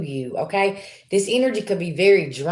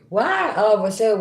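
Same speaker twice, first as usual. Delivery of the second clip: words dragged through a yawn; 5 semitones higher, 4 dB louder than usual. Real, not acted. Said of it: "I started yawning".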